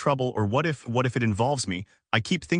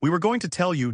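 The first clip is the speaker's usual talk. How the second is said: slightly raised, pushed a bit too hard; a little too loud; 6 semitones higher than usual. Acted. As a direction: say it a bit higher and louder than needed. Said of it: "a little too loud".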